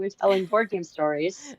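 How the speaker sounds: losing her voice, a bit rough; hoarse voice. Real, not acted. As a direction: voice going hoarse. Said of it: "And I'm losing my voice".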